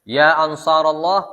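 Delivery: loud, slow, drawn-out rallying call; retold loud cry. Bilal calls God's helpers for aid, in a loud imitated cry. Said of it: "sarraha bi a'la sauti".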